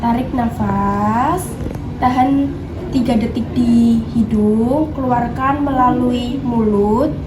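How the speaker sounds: slow, measured breathing cues; guided breathing. Pretend. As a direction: guide the patient slowly through each breath. Guiding patient through breathing exercise. (memandu napas dengan pelan)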